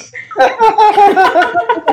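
real high-pitched giggle; high laugh. Real, not acted. Laughing at the memory.

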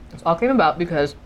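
chewing while talking; mouth full. Real, not acted. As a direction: talk through food. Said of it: "I'm speaking with my mouth full".

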